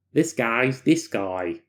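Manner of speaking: slow, lightly odd tough-guy voice; a hint of a gruff subject; odd character voice. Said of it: "completely not an African American voice".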